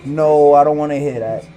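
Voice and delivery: loudly acted-out refusal to listen; mock objection. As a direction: push back like a stubborn doubter. Acting out people refusing to believe him.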